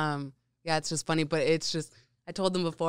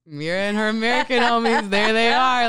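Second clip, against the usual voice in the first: higher, louder mock London accent; London friends' accent; 6 semitones higher, 10 dB louder than usual. London friends remarking on the Americans, mock London accent. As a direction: imitate London friends teasing in a British accent. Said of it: "my friends in London will just be like".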